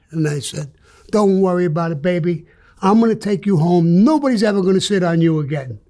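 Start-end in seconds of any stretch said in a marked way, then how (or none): 1.1-5.8 comforting the couch. Retold or imitated. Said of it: "I started to pet the couch".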